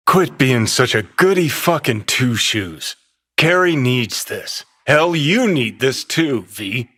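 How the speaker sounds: bully V into it with a shout; angry shout. Acted. Johnny yelling at V to go through with it, angry. Pushing V into the job.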